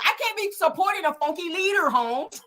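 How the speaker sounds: a light Chicano slang delivery, ending in Holmes; mock Chicano street voice; Chicano accent. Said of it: "let me say it like the Mexican".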